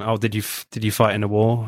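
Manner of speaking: lightly hammed-up French accent; a weak stab at a French accent; bad French accent. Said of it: "terrible French accent I just did".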